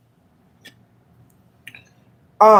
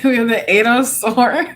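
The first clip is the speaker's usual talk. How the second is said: giggling; 3 semitones higher than usual. Real, not acted. Giggling while reading the cards.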